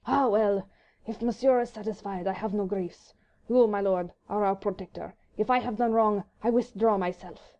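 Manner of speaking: a touch of wounded French dignity; lightly voiced Frenchman, stiffly proud; dignified. A narrator's reading. Frenchman answering Sir Percy, lightly voiced dignified reply. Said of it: "he said with becoming dignity".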